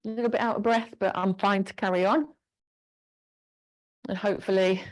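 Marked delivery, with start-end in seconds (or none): 0.0-2.3 slightly winded reply. Pretend.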